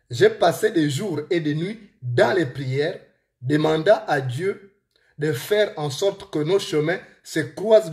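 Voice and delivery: deliberate storytelling in a real Gabonese accent. Real, not acted. Author reads his book to listeners, Gabonese accent. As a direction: read aloud in a Gabonese accent, phrase by phrase. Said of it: "avec mon accent gabonais, mon accent de Manji".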